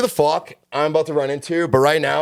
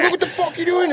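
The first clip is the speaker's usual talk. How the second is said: much higher, exasperated mock bark; retold angry yell. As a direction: point at the mess and yell. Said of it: "And I was like".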